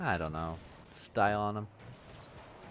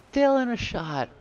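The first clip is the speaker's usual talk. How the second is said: excited caster yell; 11 semitones higher, 4 dB louder, much slower than usual. Real, not acted. Caster hype on a shot.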